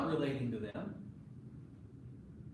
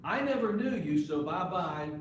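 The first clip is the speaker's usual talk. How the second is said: emphatic dismissal; 4 dB louder than usual. Acted. Preacher voicing Jesus dismissing the lost, loud and final. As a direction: toss them off with a loud farewell.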